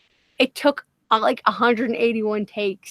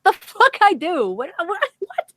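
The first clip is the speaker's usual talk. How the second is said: higher, louder stunned reaction; indignant disbelief; 9 semitones higher, 3 dB louder than usual. Retold or imitated. Retelling her reaction to being called Australian, indignant disbelief. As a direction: act out baffled protest, stammering out the repeats.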